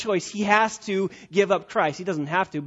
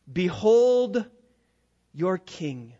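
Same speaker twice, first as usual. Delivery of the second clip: mocking; much slower than usual. Pilate mocking the Jews with their king, mocking. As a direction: present him with mild mockery. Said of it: "This is his way of mocking them".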